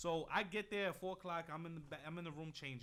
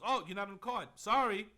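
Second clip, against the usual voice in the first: smug, mocking put-down, higher and louder; dickhead way; 5 semitones higher, 10 dB louder than usual. Retelling the promoter's brush-off, a smug mock sneer. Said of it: "he said it in, like, a dickhead way".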